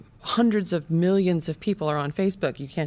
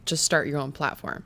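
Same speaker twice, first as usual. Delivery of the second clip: snarky retort; 4 semitones lower, 4 dB quieter than usual. Retold or imitated. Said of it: "a snarky conservative would say".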